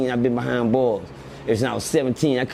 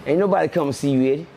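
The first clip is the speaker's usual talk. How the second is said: playing Eddie Kane. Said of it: "Now, I'm Eddie Kane".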